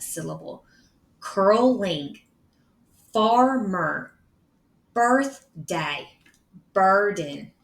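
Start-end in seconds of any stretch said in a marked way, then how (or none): 1.2-7.5 each word split into its two syllables; measured word list, a small gap inside each word. Shown as a demonstration. Teacher reading examples of R-controlled syllables, each word broken in two.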